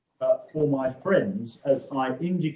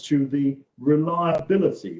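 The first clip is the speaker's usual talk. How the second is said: reliability pushed out, slightly louder; stress on reliability; 4 dB louder than usual. Real, not acted. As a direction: lean on reliability. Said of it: "we emphasize that word".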